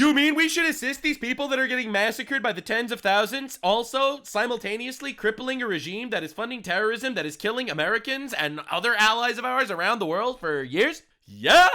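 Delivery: exaggerated disbelief, punched final word; mock incredulity. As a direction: spell it out as if it's obvious. Mock-incredulous answer to the question.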